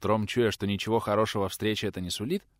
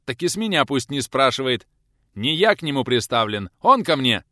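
much louder and higher angry bark; 5 semitones higher, 8 dB louder than usual. A narrator's reading. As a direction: bellow it after him. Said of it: "Гаркнул пришелец".

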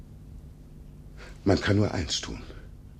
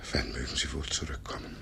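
whisper; 6 dB quieter than usual. Acted. Old man musing alone.

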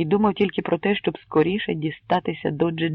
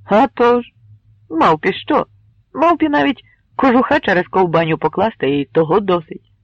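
lively joking reply; 4 semitones higher, 6 dB louder than usual. Acted. Kremeznyi's joking retort.

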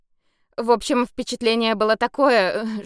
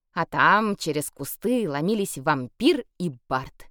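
ordinary delivery

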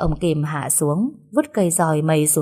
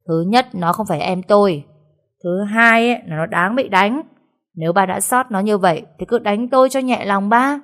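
somewhat louder defiant reply; talking back loudly; 3 semitones higher than usual. Acted. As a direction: answer father back, raising voice. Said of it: "cậu Gia Luân đã to mồm". (cãi lại to tiếng)

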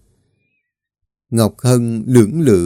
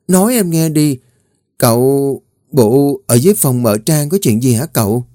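high, mocking girl's voice teasing her master; teasing young maid; 5 semitones higher than usual. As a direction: poke fun at him like a cheeky young servant. Mai teasing the crying young master.

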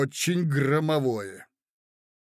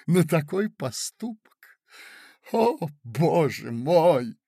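shocked reproach; 2 semitones higher, 4 dB louder, slower than usual. Acted. Marya's mock shocked reproach.

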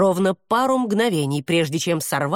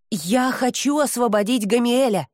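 a quick, higher burst of words; blurted out; 6 semitones higher than usual. A narrator's reading. Hesti blurts out to the demon, higher and quick. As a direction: Hesti blurts her wish before she can stop. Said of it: "выпалила Хести".

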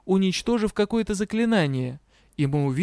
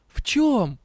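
sharply higher accusing question; accusatory; 7 semitones higher than usual. A narrator's reading. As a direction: demand it like a prosecutor. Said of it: "как обвинительная речь". (обвиняющим тоном)

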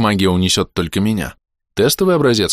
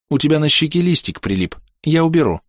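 higher, sweet female voice; 8 semitones higher than usual. A narrator's reading. Alishana speaks sweetly.

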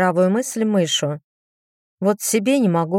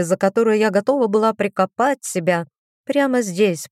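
ordinary delivery, nothing marked

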